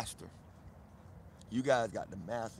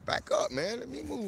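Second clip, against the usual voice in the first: startled squeal. Real, not acted. Animals crowding him under table.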